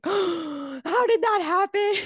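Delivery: slow, stunned and high; shocked disbelief. Retold or imitated. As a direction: ask it completely bewildered. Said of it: "being like".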